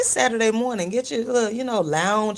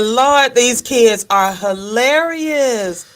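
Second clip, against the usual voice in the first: slow, louder amused exclaim; 4 semitones higher, 5 dB louder, much slower than usual. Real, not acted. Exclaiming about kids.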